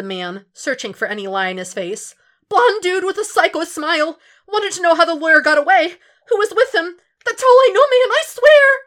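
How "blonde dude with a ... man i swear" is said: much higher, louder frantic pleading; desperate thug. Acted. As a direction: beg him to believe it. Thug describing the agent.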